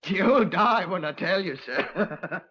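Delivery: slow, sly chuckling buildup; laughing tease. Acted. Prisoner teasing inspector about where Artie is, slow chuckling tease. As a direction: savour the joke before the laugh.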